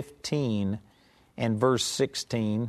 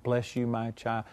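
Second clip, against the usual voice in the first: mock gentle blessing; 3 semitones lower, 6 dB quieter than usual. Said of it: "do one of these things and bless them".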